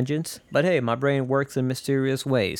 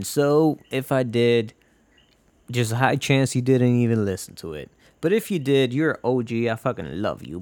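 ordinary talk

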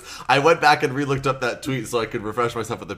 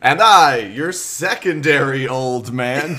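storyteller intro; 4 dB louder, much slower than usual. Acted. Mock grand self-introduction.

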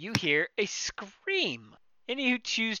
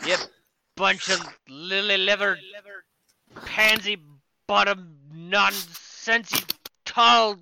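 put-on gruff drunk insult; slower than usual. Drunk patron insults party.

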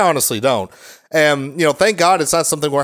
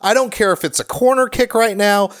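imitated stern coach; 6 semitones higher than usual. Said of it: "just like".

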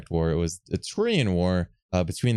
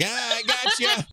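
high, slow leering voice; sleazy gotcha; slower than usual. Retold or imitated. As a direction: drag it out like a creepy reveal. Ron Jeremy impression.

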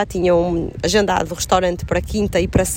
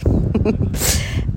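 sneezing; 2 semitones higher than usual. Real, not acted. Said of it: "Que belo espirro!".

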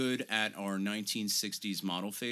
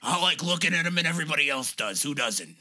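mock interview answer; 3 semitones higher than usual. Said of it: "I wanted to be like".

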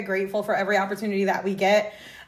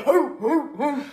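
mock pit bull cry; 4 semitones higher, much slower than usual. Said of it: "you actually sounded like a pit bull".

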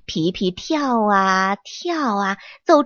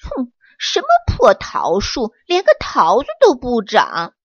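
disappointed grumble; 3 dB louder than usual. Acted. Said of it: "皮皮失望地说".

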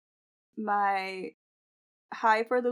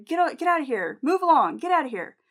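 mock yell, raised pitch, falling commands; higher-pitched dismissive orders, not full force; toned-down yelling; 5 semitones higher, 3 dB louder than usual. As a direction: imitate an angry man ordering someone away, softened. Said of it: "I'm saying it in a nicer way".

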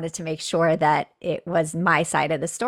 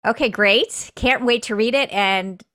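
lightly voiced husband, rising into a playful question; husband's teasing doubt; 5 semitones higher than usual. Husband doubting his wife can write, mock teasing. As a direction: tease her gently, ending high and doubtful. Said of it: "and he's like".

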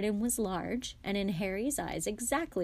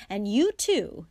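glaring; 3 semitones higher, 8 dB louder than usual. Acted. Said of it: "glaring at Ron and George".

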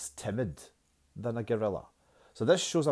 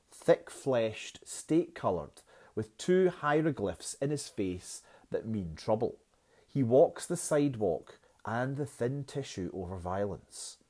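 reading the stanza aloud to the class; a poem read aloud for the students, with pauses; 3 dB louder than usual. Shown as a demonstration. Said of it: "I'll read you stanza one".

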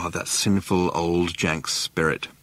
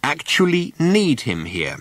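patient; 5 semitones higher, slower than usual. A narrator's reading. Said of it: "said Ford patiently".

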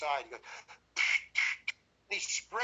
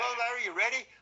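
lightly put-on jolly greeting, a bit raised; jaunty, jolly; 4 semitones higher, 4 dB louder, faster than usual. Director checks on his nervous actor, jaunty and jolly. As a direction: imitate a cheery director, pitched up. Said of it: "Now he's all jaunty jolly".

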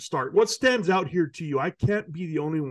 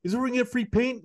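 quoting the guy; 8 semitones higher than usual. Retold or imitated. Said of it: "and the guy says".

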